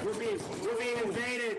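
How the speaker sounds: loud, high mock alarm; excited shout. Real, not acted. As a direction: shout it like an invasion. Guest bursts into the studio.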